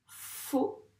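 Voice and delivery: "Photographe" in four detached syllables with gaps. Shown as a demonstration. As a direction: break "Photographe" up, one beat per syllable. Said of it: "cette petite technique des syllabes". (« Photographe » syllabe par syllabe, avec des pauses)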